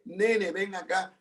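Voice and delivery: soft, slow and affectionate; tender call. Retold or imitated. Wife calling her husband over, soft, slow and tender. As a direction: coax him over gently like a loving wife. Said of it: "es el tono de voz".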